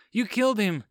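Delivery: shocked stammer. A narrator's reading. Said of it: "Lisa stammered".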